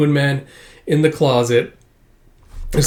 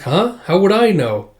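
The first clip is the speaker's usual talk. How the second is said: high playing-dumb voice; innocent Anya; 6 semitones higher than usual. Anya dodging the fish question, high innocent voice. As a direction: feign innocence. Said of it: "It's like".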